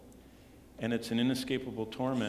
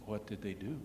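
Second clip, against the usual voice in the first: hushed, much softer question; imitated whisper; 3 semitones lower, 9 dB quieter than usual. Waitress coming back to the pastor, imitated whisper. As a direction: ask it under the voice, confidentially. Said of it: "she came back and whispered to me".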